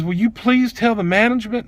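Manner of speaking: high-pitched request; imitated hurt plea. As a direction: imitate her pleading up high. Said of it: "It hurt her feelings".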